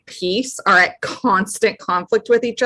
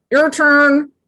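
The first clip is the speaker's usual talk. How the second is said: higher, gagged voice; talking through gag; 7 semitones higher, 3 dB louder than usual. Acted. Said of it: "with the gag still in my mouth".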